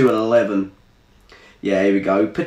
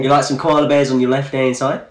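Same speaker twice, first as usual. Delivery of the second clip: casual put-on Aussie; Australian accent. Teasing a viewer about koalas in mock Australian accent. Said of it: "What about a different accent?".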